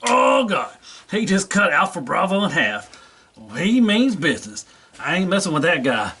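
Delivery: high, panicky little figure; scared toy voice. Pretend. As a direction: squeal in alarm at the giant. Small toy reacting in fear.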